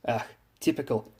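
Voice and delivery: put-on high, haughty German-accented announcement; sigh, then proclaim yourself grandly; imperious German ship lady; arrogant impatience. A narrator's reading. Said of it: "replied with a tone of arrogant impatience".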